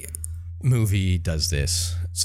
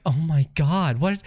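mock alarm, pitched higher; upset reaction; 7 semitones higher, slower than usual. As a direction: imitate an overreacting movie couple. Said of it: "they both get really upset".

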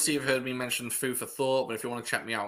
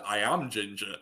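mock-solemn reply. Answering her pick-up line as himself, mock-solemn. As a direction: answer as him, playfully solemn. Acts out his reply in joke.

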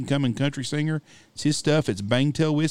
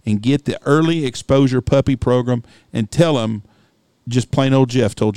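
louder, pushing the pitch; emphatic pitch; 5 dB louder than usual. Real, not acted. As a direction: sell it hard.

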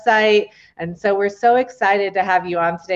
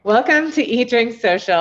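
upbeat live welcome; 5 semitones higher, 3 dB louder than usual. Real, not acted.

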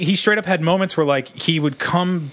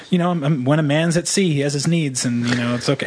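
deadpan grandmother. Retold or imitated. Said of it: "she'd be like".

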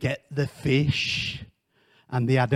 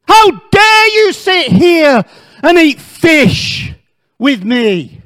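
high, loud mock tirade of rebuke; mock furious Jesus; 8 semitones higher, 11 dB louder than usual. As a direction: berate Peter in a loud, high, pretend fury. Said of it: "he didn't say that".

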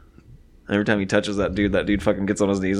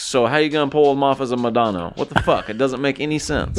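high-pitched exasperated complaint; ranting; 4 semitones higher than usual. Real, not acted. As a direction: protest in disbelief. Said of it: "I already pre-ranted your rant".

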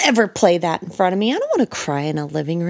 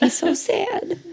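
mock pity; 10 semitones higher, 4 dB quieter than usual. Mock pity for sad dog.

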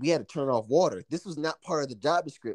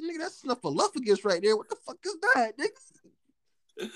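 high, climbing disbelief; mock horror; 8 semitones higher than usual. Young worker to catcalling coworker, comically appalled. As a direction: push it up into an incredulous squeal.

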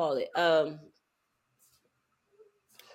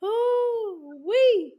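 excited whoop; 12 semitones higher, 5 dB louder than usual. Real, not acted. Reaction cry.

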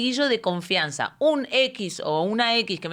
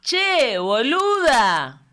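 mock friendly Argentine; 3 semitones higher, 4 dB louder, much slower than usual. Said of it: "y me dice".

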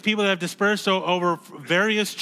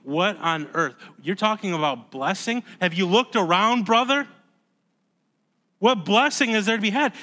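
imagined incredulous listeners; 2 semitones higher than usual. Acted. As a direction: voice the doubting congregation, increasingly baffled. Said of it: "Could you imagine people thinking".

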